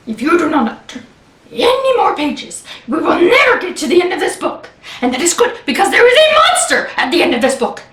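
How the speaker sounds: furry monster hatching a plan, then urging; lightly voiced Grover, pleading. Grover begs reader not to turn pages, mildly urgent.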